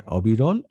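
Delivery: অবিরল with open "ɔ" first; teacher's approving model অবিরল; confirmed pronunciation. Shown as a demonstration. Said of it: "অবিরল না".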